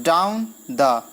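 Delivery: "डाउन" drawn out slowly, "द" short; stress on down. Shown as a demonstration. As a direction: linger on "डाउन", release quickly on "द". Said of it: "डाउन को थोड़ा time लग रहा है". ("डाउन" पर खिंचा ज़ोर, "द" हल्का)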